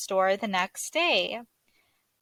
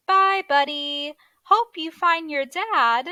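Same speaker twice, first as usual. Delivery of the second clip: higher, louder little elf voices; cheerful elf farewell; 5 semitones higher, 4 dB louder than usual. Acted. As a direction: call out a bright goodbye. Elves say goodbye to Buddy.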